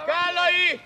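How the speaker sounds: loud call to a player. Real, not acted. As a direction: shout the name across the pitch. Coach calls out to player. (hangos bekiabálás)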